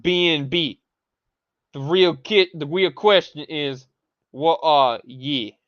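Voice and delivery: slow, mocking reading of a comment; mildly hammed-up mock voice. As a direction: read the comment out with scorn. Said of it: "the Matt Fedral says".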